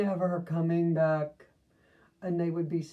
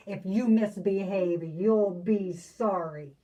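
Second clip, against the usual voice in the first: stern threat; 6 dB louder than usual. Acted. Miss Swamp threatening the class.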